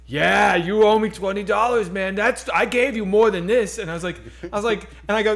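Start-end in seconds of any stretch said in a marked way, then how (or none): 0.1-3.8 mock mugger insisting. Mugger demanding money, acted.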